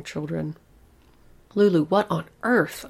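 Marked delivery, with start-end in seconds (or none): 1.5-2.8 sharp, louder shocked demand; loud shocked demand to daughter. Acted. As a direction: demand an answer from the child. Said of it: "I demanded".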